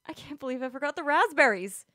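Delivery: high, loud ditzy woman; ditzy airhead voice. Acted. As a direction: play her bubbly and vapid. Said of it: "she smiled".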